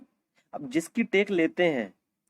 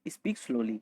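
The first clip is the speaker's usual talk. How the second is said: slow demo; 4 semitones lower, 5 dB quieter, much slower than usual. Shown as a demonstration. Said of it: "आपको बोलना पड़ेगा".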